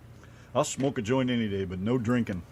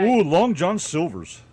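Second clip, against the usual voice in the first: slow, loud excited ooh; 7 semitones higher, 7 dB louder, slower than usual. Real, not acted. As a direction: savor the name with delight. Excited about the fish.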